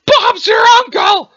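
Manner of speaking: very high, drawn-out shout; booming cornball exclamation. Acted. Jake powering up, booming cornball shout. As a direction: holler the catchphrase with hammy gusto.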